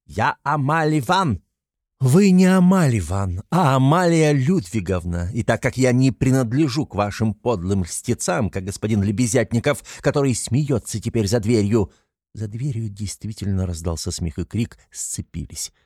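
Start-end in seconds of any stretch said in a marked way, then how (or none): 0.0-11.9 высокий, громкий надменный выговор; отчитай хозяйку свысока, с гордым возмущением; Катерина Ивановна в гневе. A narrator's reading. (задыхающаяся от обиды дама отчитывает квартирную хозяйку, надменно и громко)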